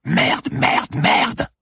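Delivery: high, loud repeated curse; furious, high-pitched outburst; frustrated screaming. A narrator's reading. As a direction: scream each curse at nobody. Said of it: "cria-t-elle dans le vide".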